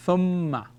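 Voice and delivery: "Thumma" as a model word, lingering on the m; blended word. Shown as a demonstration. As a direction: join "Thum" and "ma" into "Thumma". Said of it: "it is pronounced".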